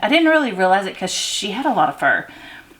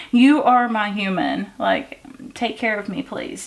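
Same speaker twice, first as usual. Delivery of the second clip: cat's adoring voice; slower than usual. Retold or imitated. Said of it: "she was just like".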